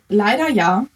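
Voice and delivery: LEIDER leaned on before a short ja; stress on leider. Real, not acted. Athlete answers whether points shape her planning, stress on leider. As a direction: put the emphasis on the word leider. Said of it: "Betonung auf leider".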